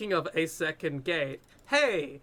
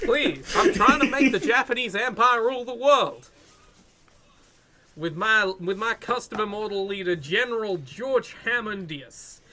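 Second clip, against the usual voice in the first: higher, louder villain rant, laughing; megalomaniac rant; 5 semitones higher, 3 dB louder than usual. Pretend. Hammond plans world domination.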